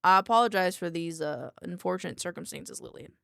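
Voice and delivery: lightly put-on country accent. Doctor apologizes to a contained researcher, light country accent. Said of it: "give him a country accent".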